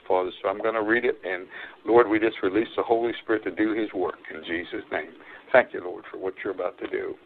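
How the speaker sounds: low, subdued spoken prayer. Real, not acted. Preacher asks the Lord to move upon his people, prayerful. Prays aloud before the reading.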